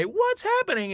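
high-pitched mock grandma cry; upset grandmother. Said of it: "you hear her say".

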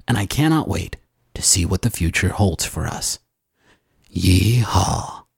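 lightly deepened trailer narrator; movie trailer voice. Acted. Host reading a listener's love note, movie trailer voice. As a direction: read it like an epic film teaser. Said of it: "in a movie trailer voice".

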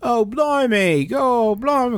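high, hammed-up Cockney blimey; a pretend Londoner gasping in Cockney; Cockney accent. Playing a Cockney gent in 1935 London, hammed-up Cockney. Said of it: "I was really hoping you would do an accent".

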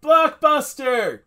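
high, loud, stretched-out shout; slow mock-dramatic cry; announcing. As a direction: drag it out as a big announcement. Echoing the topic announcement.

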